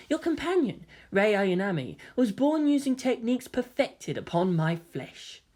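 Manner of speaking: put-on soft, quiet boy voice; gentle young man. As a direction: reveal it calmly. Voices Kaoru revealing himself.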